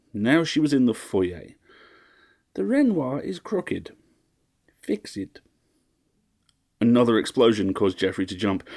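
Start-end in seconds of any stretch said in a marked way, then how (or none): 2.5-5.4 slow, high, imperious matron; high, haughty order. A narrator's reading. Mistress ordering her butler about the painting, high and haughty. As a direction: drawl it down at a servant.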